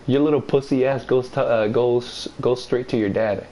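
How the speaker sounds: tripping over "goes", repeating it; stuttered "your little pussy ass goes, uh, goes"; stumbling. Real, not acted. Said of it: "I said it perfect too".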